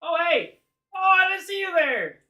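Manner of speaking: high, loud, delighted greeting; suddenly friendly little monster, squealing hello; charmed creature. Acted. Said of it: "Yeah, he's charmed, buddy".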